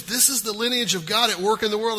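ordinary talk

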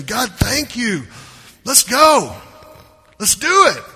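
rising to an eager shout of yes; eager response. Pretend. Believer answering God's promise, a mock eager shout. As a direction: fire up like you can't wait to start.

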